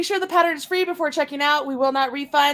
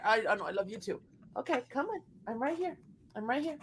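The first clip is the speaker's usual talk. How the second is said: much softer, tender murmur; soft to the dog; 2 semitones lower, 10 dB quieter, faster than usual. Real, not acted. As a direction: hush the dog gently. Soothing dog in her lap.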